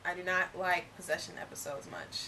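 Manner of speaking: fake British accent. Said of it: "we're doing our accents".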